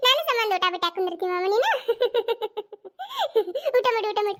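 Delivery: giggling coaxing; asked to say it smiling, she giggles at her uncle to eat; laughing. Real, not acted. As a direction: laugh while urging him to eat. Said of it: "ಒಟ್ಟು ನಕ್ಕೋತ ಹೇಳು ಅದ್ನ".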